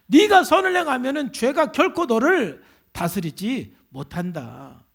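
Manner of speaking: forceful opening on each sentence; preacher's solemn proclamation; emphatic preaching. Acted. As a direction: declare it firmly from the pulpit.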